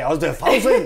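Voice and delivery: made-up German gibberish; mock German. Imagining German during sex, mock German accent. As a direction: parody unsexy German pillow talk. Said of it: "el único país que no sirve es el alemán".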